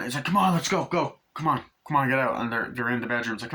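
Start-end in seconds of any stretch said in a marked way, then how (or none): 0.2-2.4 higher, urgent hurry-up; mock urging. Film character hurrying the others along, mock urging. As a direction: push someone to get moving.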